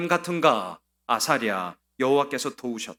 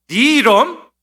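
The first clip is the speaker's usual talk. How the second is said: much louder, higher burst; sudden shout; 10 semitones higher, 14 dB louder, slower than usual. Retold or imitated. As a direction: bark the words to startle him. King's taunt peaks. (갑자기 높고 크게 외치듯)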